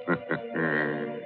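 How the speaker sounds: soft sinister chuckle; creepy chuckle. Acted. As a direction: chuckle menacingly. Host signs off with laugh.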